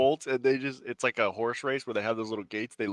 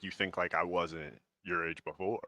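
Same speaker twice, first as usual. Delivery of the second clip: mock parent voice; 5 semitones lower, 10 dB quieter, slower than usual. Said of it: "parents saying".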